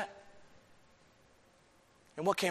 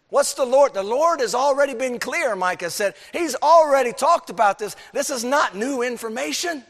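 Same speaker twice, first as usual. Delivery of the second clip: fervent preaching; 9 semitones higher, 7 dB louder than usual. Real, not acted. Preacher's raised fervent passage.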